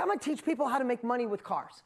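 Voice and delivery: bold, punchy declaration; fired up. Retold or imitated. Young Dean declaring his new business plan, fired up. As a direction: announce the big plan with fire. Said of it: "I get all fired up".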